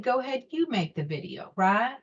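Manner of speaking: hear a voice nudging you forward; inner voice. Retold or imitated. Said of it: "the voice said".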